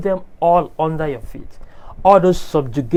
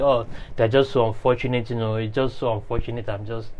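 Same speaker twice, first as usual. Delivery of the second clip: mock lamenting; 4 semitones lower, 6 dB quieter than usual. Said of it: "just crying and lamenting".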